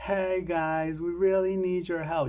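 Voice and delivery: high-pitched sarcastic tone, thick with mockery. Acting out how a plea sounds through a sarcasm filter: mock sarcastic tone. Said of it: "like all sarcastic".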